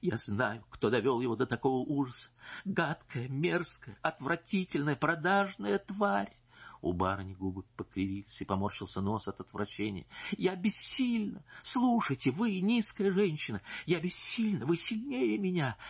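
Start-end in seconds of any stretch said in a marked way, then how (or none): 0.0-6.4 contemptuous accusation. Acted. Wife denounces mistress. 10.3-15.8 high, slow, pleading outcry; anguished wife. Acted. Wife to her husband's mistress, high anguished outcry.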